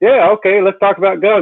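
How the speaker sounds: eager voice, high and loud.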